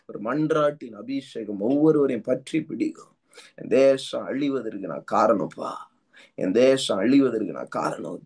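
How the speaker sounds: intense tongues-filled prayer, rhythmic and urgent; fervent prayer. Acted. Pastor leading congregation in prayer, fervent. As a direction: pray over the church with rising fervour.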